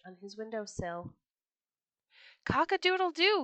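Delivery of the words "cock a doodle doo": high, loud rooster crow. Acted. Rooster crowing at the Sultan's window, loud and high. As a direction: crow it out to the whole palace. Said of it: "he cried".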